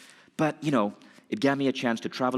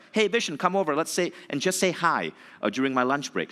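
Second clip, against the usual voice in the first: hearty call; 6 semitones higher than usual. Retold or imitated. Retelling Bob's invitation.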